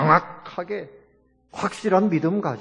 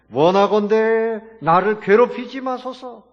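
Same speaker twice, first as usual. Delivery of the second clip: high, louder, slow imitated plea; mock loud pleading; 8 semitones higher, 5 dB louder than usual. Demon begging Jesus not to torment him, mock loud pleading. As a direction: beg loudly as a demon, drawing it out. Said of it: "귀신이 와가지고 앞에 와서 절을 하면서 큰 소리로".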